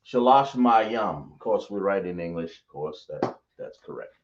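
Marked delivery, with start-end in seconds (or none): 0.1-1.3 slow teaching demo. Shown as a demonstration. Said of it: "So we're gonna say".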